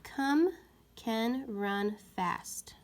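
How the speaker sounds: slow hushed wrong trial; trying out a sentence. Shown as a demonstration. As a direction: test the wrong word. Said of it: "put the word come in the sentence".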